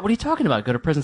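high, baffled what-are-you-on-about; mock disbelief at a silly answer; imitating his wife's confusion; incredulous wife. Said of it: "She's like".

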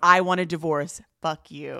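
a loud, mock grovelly I want a divorce that drops away on fuck you; hammed-up, grovelly divorce line in the right order; imitating her raw, grovelly blow-up; mock grovelly outburst. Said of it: "like, grovelly voice".

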